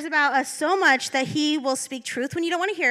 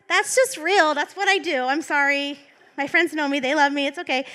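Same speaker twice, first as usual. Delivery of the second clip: laughing confession; 2 semitones higher, 5 dB louder than usual. Real, not acted. Owning her sarcasm.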